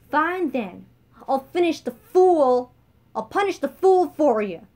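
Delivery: menacing mock threat. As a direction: sneer it like a gladiator. Beatrice threatens with dagger.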